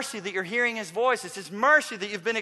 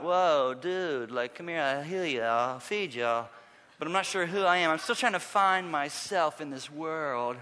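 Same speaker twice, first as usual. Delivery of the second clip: drug-hazed Jesus; 3 semitones lower than usual. Acted. Preacher mocking Hollywood's aimless Jesus, hazy stoner voice. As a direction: imitate a dazed, druggy movie Jesus. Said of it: "looks slightly drug-induced, like he's in a haze".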